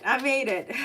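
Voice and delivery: laughing through relief; relieved laugh. Real, not acted. Tarot reader to her viewers, laughing with relief. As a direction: laugh it out, relieved it's over. Relief after holding back tears.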